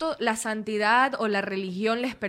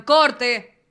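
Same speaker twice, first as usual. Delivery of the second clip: director yelling cut; 2 semitones higher, 6 dB louder, much slower than usual. Retold or imitated. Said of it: "y el man".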